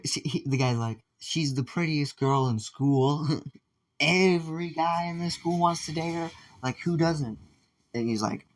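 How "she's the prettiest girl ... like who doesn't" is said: higher, slow at first, a laugh in it; lightly voiced guy. Guy tells Zuki why everyone wants her, higher and laughing. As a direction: brag about her like it's obvious. Guy explaining the girl's appeal.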